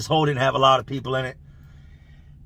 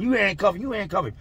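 imitated squabble, pitched higher; higher acted bickering, rising at the end; arguing; 5 semitones higher than usual. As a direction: pass the job off in a mock argument. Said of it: "The guards are arguing".

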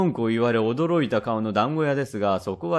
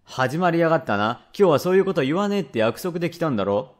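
mildly exasperated dad, quick reproach; father's brisk telling-off, lightly acted; scolding father; 3 semitones higher than usual. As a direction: lightly scold a child who has started begging. Father scolding a begging child.

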